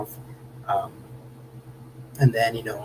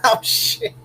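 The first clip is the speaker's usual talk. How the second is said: startled laugh; 6 dB quieter than usual. Real, not acted. Disbelieving laugh at comment.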